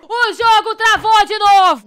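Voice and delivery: slow, very loud, high yell; frustrated bellow. Real, not acted. Gamer outraged that the game froze again, slow frustrated yell. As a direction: stretch it out in an outraged shout.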